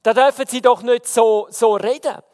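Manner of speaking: stammering. Retold or imitated. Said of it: "angefangen zu stottern".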